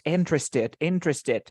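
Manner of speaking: "interested" in three syllables, in-tres-ted; "interested" compressed to three syllables. Shown as a demonstration. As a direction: say "interested" as three beats at natural speed. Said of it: "Three syllables".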